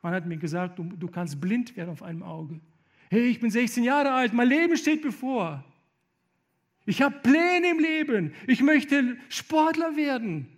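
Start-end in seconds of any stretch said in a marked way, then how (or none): 3.1-10.5 much higher, loud, pleading; retold despairing protest. Injured teenager protesting his lost future, high and loud. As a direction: cry out that your life is ahead.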